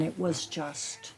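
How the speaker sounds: trailing off in a whisper. Real, not acted. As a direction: let the words drop to a breathy whisper.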